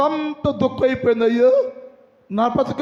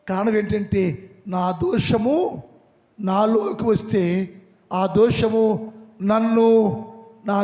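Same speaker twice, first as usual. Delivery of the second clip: sorrowful lament; 5 semitones lower than usual. Acted. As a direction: grieve it out low as fallen David. Preacher voices weeping, fallen David.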